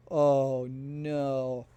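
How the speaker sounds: a loud, sudden groan of dismay; loud oh no, retold with a hint of dread. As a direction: blurt out the bad news loudly. Colleagues realize the plane problem.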